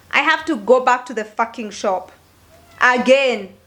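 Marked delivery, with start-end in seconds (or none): none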